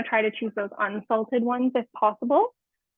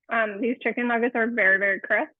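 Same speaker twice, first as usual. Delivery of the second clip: talking with a mouth full of food; chewing while speaking, mouth full. Real, not acted. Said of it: "Sorry for talking with my mouth full".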